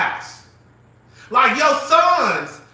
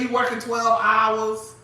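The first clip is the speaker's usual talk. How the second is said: mock indignant shout. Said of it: "What she say".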